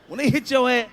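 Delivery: usual speaking voice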